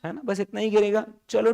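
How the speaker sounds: normal talking voice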